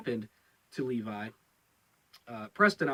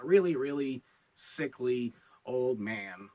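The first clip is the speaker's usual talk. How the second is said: sickly old man impression; 2 semitones lower than usual. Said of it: "I don't know if I do a good impression".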